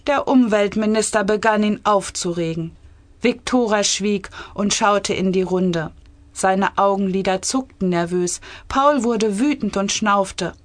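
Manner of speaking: measured, clearly articulated story reading; story narration. A narrator's reading. Author reading her cabinet satire, measured story narration. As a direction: read the tale aloud with composure.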